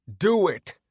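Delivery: loud, high dare; defiant yell; scream. Acted. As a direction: scream it in his face. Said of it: "I screamed in his face".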